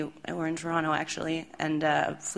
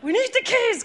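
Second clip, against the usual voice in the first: determined; 5 dB louder than usual. Retold or imitated. Bassist insists on diving.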